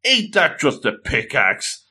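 doubt your friend's grand claim; skeptical. Acted. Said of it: "is a bit of a skeptic".

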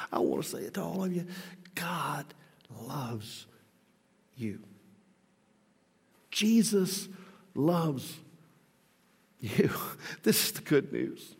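soft intimate whisper, words spaced out. Real, not acted. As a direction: lean in and whisper it to each one. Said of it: "Can I just say it to you?".

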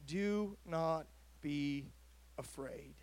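slow, fading into a whisper on afraid; hushed angel words. A narrator's reading. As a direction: let the last word drop to a breath. Angel's words softly voiced.

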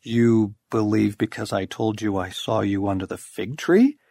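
rising sharply on tree, mock astonished; amused disbelief. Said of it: "raised eyebrows and a suppressed smile".

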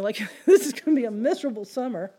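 laughing self-pity. Retold or imitated. Self-pity at crying vision.

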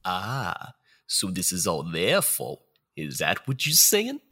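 tough mobster spirit, cocky; gangster ghost voice. Acted. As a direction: play a wiseguy ghost talking down. Gangster-style ghost of future.

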